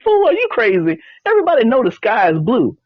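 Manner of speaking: high-pitched scoffing disbelief, acted; incredulous tiger. Tiger answering the donkey's green-sky claim, incredulous. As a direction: voice a tiger who can't believe this nonsense.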